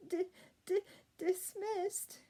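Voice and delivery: high stammering wail. A narrator's reading. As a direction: cry it out, stumbling. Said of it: "wailed the ordinary princess".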